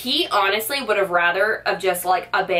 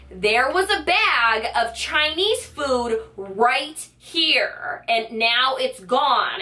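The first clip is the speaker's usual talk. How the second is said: higher, slow, insistent mock yell; getting louder; 5 semitones higher, much slower than usual. Arguing with the cashier about her missing bag, a slow raised-pitch protest. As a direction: raise it up and spell it out slowly. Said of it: "so I'm getting louder".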